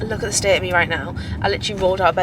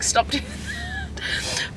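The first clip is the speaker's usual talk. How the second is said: imitating Jordan; 8 dB quieter, much slower than usual. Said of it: "Jordan's like".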